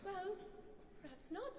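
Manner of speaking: gentle, softening concession; placating, tone easing down; soothing. A narrator's reading. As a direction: back down softly to calm someone. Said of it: "in a soothing tone".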